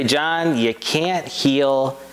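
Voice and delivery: very slow "you can't heal", drawn out. Retold or imitated. Quoting his late mentor to the congregation, very slowly. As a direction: stretch out "can't heal" the way he did. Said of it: "he would say it much slower".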